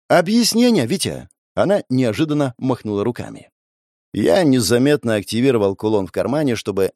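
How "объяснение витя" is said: demanding. Acted. Sister demands explanation.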